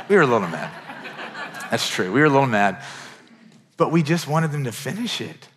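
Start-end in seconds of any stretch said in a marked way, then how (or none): 0.1-0.7 owning it with a laugh; laughing admission. Real, not acted. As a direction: chuckle through the confession. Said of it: "I was gonna say we weren't mad".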